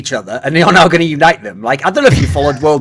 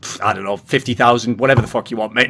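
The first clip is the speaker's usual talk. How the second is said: dismissive shrug; 4 semitones lower, 4 dB quieter than usual. Retold or imitated. Blizzard shrugging off Charlotte bid.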